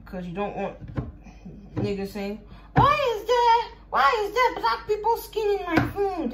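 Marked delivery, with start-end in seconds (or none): 2.7-6.3 high-pitched indignant quote; mock outraged complainer. Imagined eater complains about the food, mock outrage. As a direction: cry out like an appalled customer.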